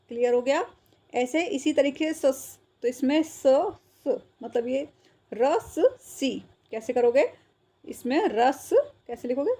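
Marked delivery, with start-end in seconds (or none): 5.3-6.3 रस सी broken into रस and सी, slowly; शब्द तोड़कर. Shown as a demonstration. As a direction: sound out रस, then सी, drawn out. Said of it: "इसमें आधे से की साउंड आ रही है". (रस सी को धीरे-धीरे तोड़कर)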